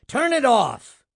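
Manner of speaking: high, loud command; shouted order. A narrator's reading. Boss ordering the projectionist to stop, loud shout. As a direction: yell the order at the booth. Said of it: "Edelman shouted".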